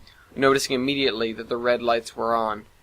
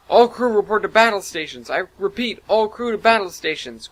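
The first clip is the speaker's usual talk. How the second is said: loud, high ship-wide order; commanding announcement; 7 semitones higher, 4 dB louder than usual. Acted. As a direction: call everyone to battle stations. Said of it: "Cortana commanded".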